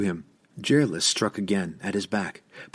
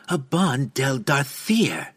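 crying out; 4 semitones higher, slower than usual. Acted. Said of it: "Jerlis cried again".

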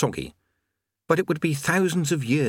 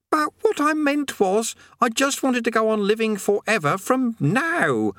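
high, slow frantic pleading; boy panicking about his wish; 12 semitones higher, slower than usual. Acted. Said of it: "said Eric frantically".

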